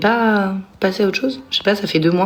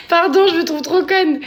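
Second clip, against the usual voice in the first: high, slow laughing apology; amused apology; 10 semitones higher than usual. Real, not acted. Apologising to viewers for her mistake, still giggling.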